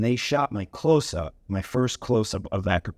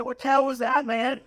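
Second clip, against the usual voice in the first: laughing. Retold or imitated. Teasing friend afterwards.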